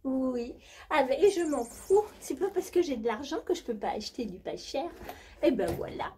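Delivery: high, breathy posh diva voice; hammed-up high society diva; rich diva character. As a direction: play a spoiled jet-set lady bragging. Same diva character continues.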